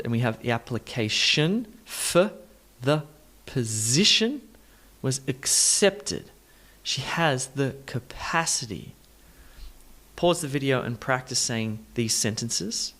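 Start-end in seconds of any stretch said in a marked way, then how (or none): 0.4-8.9 slow, separated words with "for" and "the" reduced to uh; deliberate pauses, schwa in "for the position"; schwa demonstration. Shown as a demonstration. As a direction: spell out the rhythm slowly, weak vowels in "position" and "capacity". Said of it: "We add in that very important vowel sound".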